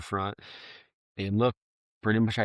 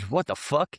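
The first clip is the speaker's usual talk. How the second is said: huge disbelief; 5 semitones higher than usual. Retold or imitated. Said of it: "A huge".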